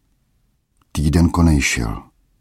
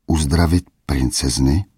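disbelieving. Acted. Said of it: "jak by nevěřil svým uším".

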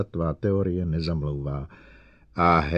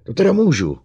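through teeth; 7 semitones higher, 9 dB louder, faster than usual. Acted. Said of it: "procedil Bogart mezi zuby".

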